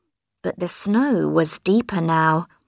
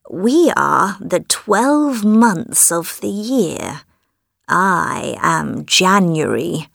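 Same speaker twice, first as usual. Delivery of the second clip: put-on slow, solemn old man; slower than usual. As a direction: speak slowly like an ancient elder. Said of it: "said the old man".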